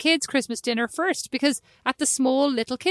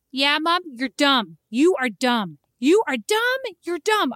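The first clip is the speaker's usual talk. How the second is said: son taunting; 2 semitones higher, slower than usual. Retold or imitated. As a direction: tease like a cheeky four-year-old. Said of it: "He goes".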